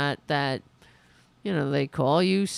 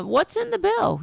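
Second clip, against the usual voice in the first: pointed demand; 3 dB louder than usual. Pretend. Demanding question reporters should ask.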